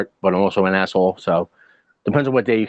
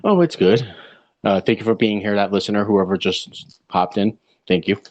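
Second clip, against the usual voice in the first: cigarette in mouth. Real, not acted. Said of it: "Now I need to light a cigarette".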